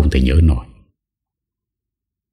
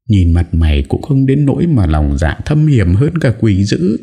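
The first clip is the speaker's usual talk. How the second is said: higher, mildly acted angry accusation; shrill scolding; 6 semitones higher than usual. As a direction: lash out at the culprit. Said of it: "Bà cả chu chéo". (giọng bà cả mắng chửi)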